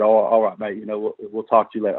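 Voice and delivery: lightly imitated British accent, badly done; horrible UK accent. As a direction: quote a British rock star in a poor UK accent. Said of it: "I know my U K accent is horrible".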